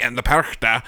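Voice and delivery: lightly voiced old German woman; old German lady. Cohost imitating a video's German speaker, old German lady voice. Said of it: "this old German lady will be like".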